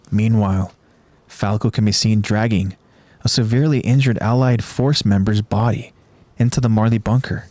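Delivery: measured, even narrator's read; story recap narration. A narrator's reading. Narrator recapping a battle for listeners, measured storytelling. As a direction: narrate the battle in deliberate phrases.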